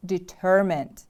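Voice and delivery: "Determined" with the stress on TER; stress on second syllable. Shown as a demonstration. Teacher models the word for repeating, stress on TER in "Determined". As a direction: lean on the middle syllable of "Determined", then fall. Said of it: "The stress is on the second syllable".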